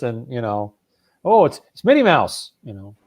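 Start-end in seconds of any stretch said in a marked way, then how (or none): 1.2-2.5 mock wonder. Mocking the show's pop culture references.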